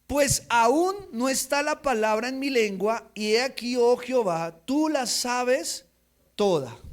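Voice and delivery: reading Psalm 139 aloud with fervor; scripture reading. Acted. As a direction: proclaim the psalm to the congregation.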